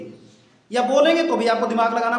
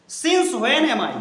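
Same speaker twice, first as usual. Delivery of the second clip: stretched out, word by word; teacher reading the new question slowly to the class; slow model reading; much slower than usual. Shown as a demonstration. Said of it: "teacher models the question slowly".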